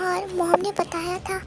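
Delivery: soft, hesitant thinking aloud; hushed, halting realization; stunned inner thought. Acted. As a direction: think it to yourself, very softly. Stunned private thought in story.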